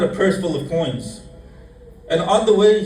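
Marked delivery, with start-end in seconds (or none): 2.1-2.8 And on the way said higher and louder; emphatic. Shown as a demonstration. Preacher repeating the phrase to the congregation, louder and higher. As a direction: punch out And on the way.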